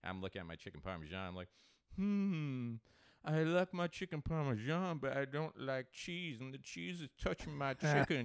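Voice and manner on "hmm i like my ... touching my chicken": high, loud caricature of a fussy diner; mocking picky eater. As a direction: mimic the fussy eater in a raised voice. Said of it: "that's when I start in".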